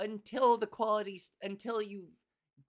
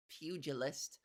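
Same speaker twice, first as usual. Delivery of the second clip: "Pugilist." dropped low and quiet like a tough guy; low bully growl; 6 semitones lower, 6 dB quieter, slower than usual. Shown as a demonstration. Savoring the word pugilist, in a low bully growl. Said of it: "You sound like a bully".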